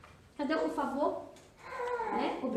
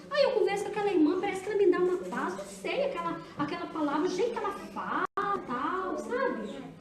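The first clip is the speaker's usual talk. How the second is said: quoted admirer; 4 dB quieter than usual. Retold or imitated. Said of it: "alguém falar isso".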